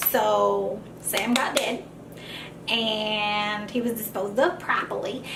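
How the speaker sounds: slow, low mock mobster; a hint of a mob boss, taking it slowly. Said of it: "You gotta say it like a mobster".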